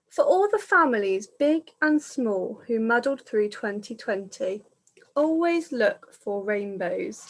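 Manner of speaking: gentle read-aloud of a dedication; reading to children. Acted. Reader sharing the dedication with the children, gently read. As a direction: read it out like a kind inscription.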